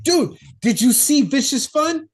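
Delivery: high-pitched gushing fan imitation; mock enthusiasm. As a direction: gush about it, exaggerated and high. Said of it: "Is that how you describe movies".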